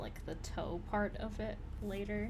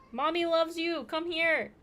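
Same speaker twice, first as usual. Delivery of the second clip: high, loud pet talk; 8 semitones higher, 10 dB louder than usual. Real, not acted. Calling the cat to come, high loud baby talk. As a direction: coax the cat loudly.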